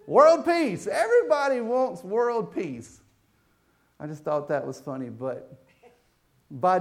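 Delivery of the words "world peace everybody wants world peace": pageant answer. Retold or imitated. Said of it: "Told you she'd do it better".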